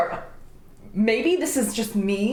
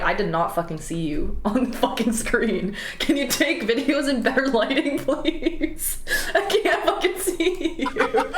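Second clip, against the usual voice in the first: laughing rant. Retold or imitated. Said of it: "I was like".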